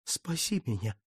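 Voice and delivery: «Спаси меня» moaned low and soft; soft plaintive moan. Acted. Count begs the Virgin, «Спаси меня» moaned softly. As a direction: breathe «Спаси меня» as a quiet plea. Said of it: "жалобно простонал он".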